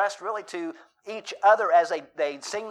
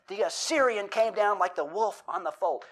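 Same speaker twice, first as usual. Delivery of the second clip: intense recitation; 3 semitones higher than usual. Retold or imitated. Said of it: "I was putting the emphasis on it".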